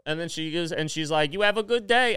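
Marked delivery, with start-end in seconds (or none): 1.3-2.2 put-on higher Puerto Rican-accented send-off; imitating crush's accent. Crush sending customer off, mimicked Puerto Rican accent. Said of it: "doing her voice".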